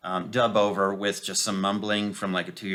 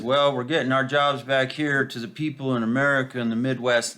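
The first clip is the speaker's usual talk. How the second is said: mock politician; 3 semitones higher than usual. Mocking politician's campaign line.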